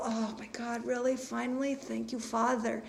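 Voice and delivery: soft relieved prayer, slowed; voicing the release. Imagined client thanking God softly. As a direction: breathe it out like grateful relief. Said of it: "That kind of feeling".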